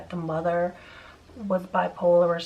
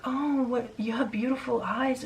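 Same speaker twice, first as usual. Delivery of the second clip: higher-pitched, weird mock compliment; lightly acted leering admiration; imitated creepy neighbor; 5 semitones higher than usual. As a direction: mimic a creepy man's flattery. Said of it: "very weird and perverted".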